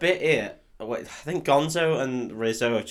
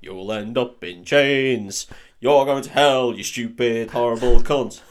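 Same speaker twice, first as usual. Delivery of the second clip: slow mock curse, growing louder; hammed-up ghostly heckling; 6 dB louder, slower than usual. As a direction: heckle like a doom-laden Muppet ghost, half laughing. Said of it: "classic Statler and Waldorf heckling".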